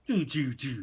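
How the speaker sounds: low, soft descending doos; deflating noise. Retold or imitated. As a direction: imitate spirits sinking. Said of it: "spirits just like".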